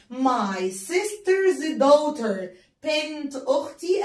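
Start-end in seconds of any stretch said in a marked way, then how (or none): 0.1-2.5 slow model phrase. Shown as a demonstration. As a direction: read it out slowly for the class. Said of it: "تقرب إيه لأختي؟".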